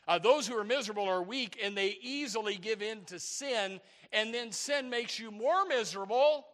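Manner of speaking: emphatic sermon delivery; forceful preaching. Real, not acted. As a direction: press the point on the congregation.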